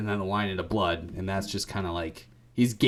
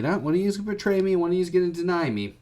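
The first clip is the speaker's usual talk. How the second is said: mock indignant Jesus; 9 semitones higher, faster than usual. Jesus insists on betrayal, voiced.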